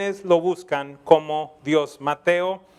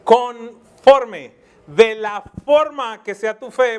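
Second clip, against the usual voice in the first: proclaiming loudly; 3 semitones higher, 7 dB louder, much slower than usual. Acted. Preacher proclaims Jesus' words.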